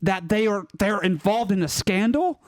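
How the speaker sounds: hammed-up amateur British accent; committed British accent. Shown as a demonstration. Panelist bashing the royal family on a dare, committed British accent. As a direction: rant in a rough mock British accent. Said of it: "commitment to the British accent".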